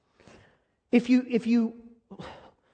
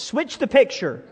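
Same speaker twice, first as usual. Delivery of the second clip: with confidence; 3 semitones higher, 3 dB louder than usual. Shown as a demonstration. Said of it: "I need you to do it with some confidence".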